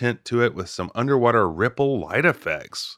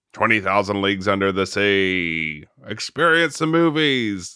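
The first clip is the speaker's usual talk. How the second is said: carnival barker; 3 dB louder than usual. Retold or imitated. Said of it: "It's very Carnival Barkery".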